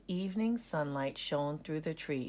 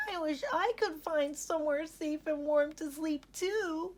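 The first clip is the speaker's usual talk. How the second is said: wistful sigh; 11 semitones higher than usual. Acted. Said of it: "Ollie sighed".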